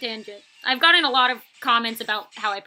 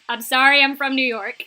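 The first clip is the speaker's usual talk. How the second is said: mock apology; 2 semitones higher, 8 dB louder than usual. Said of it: "And I was like".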